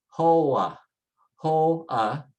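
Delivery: hoa in two clear parts, HOH-ah. Shown as a demonstration. Teacher shows the J is an H sound, syllables split. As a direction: say hoa with an H and both vowels. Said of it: "the J is an H sound".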